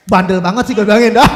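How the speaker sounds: loud exasperated scolding; mock scolding. Husband scolding his stubborn wife, loud exasperated yell. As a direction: scold her like a fed-up husband.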